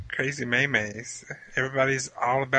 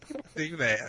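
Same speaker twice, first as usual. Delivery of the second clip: laughing; 2 semitones higher, 5 dB quieter than usual. Real, not acted. Repeats it while laughing.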